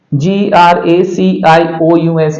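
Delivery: careful slow spelling; teacher spelling each letter; spelled slowly. Shown as a demonstration. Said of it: "इसको पढ़ेंगे".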